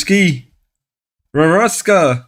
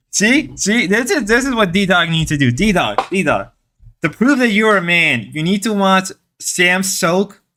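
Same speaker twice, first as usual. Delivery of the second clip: slightly raised mock-motivational pitch; sarcastic; 4 semitones higher than usual. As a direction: preach manliness as a joke, mock earnest. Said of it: "I gotta stop being sarcastic".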